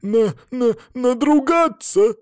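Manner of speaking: high, stammering frightened cry; panic, stumbling over the word; hysterical accusation. Acted. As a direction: captive woman accusing her captors in fright. Hysterical captive accuses them.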